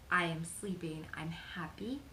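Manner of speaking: tearful near-whisper, voice catching; holding back tears on each word; choked up. Real, not acted. Vlogger fighting tears while sharing good news. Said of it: "I didn't think I was gonna get emotional".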